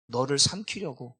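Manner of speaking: ordinary talk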